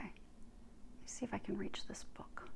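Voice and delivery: very soft, whispery aside; muttering to self. Real, not acted. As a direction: murmur it under your breath while busy. Talks to self, reaching for book.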